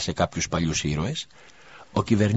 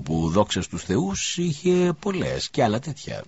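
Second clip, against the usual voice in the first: slow, then much higher whiny complaint; grumbling merchant; 6 semitones higher, slower than usual. Acted. Merchant complains about losing time, whiny grumble. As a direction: grumble like a put-upon trader. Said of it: "διαμαρτυρόταν γκρινιάζοντας".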